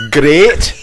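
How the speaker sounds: "Great" as a short Scottish "gret"; teacher's emphatic Scottish "Great"; Scottish accent. Shown as a demonstration. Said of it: "No, but say".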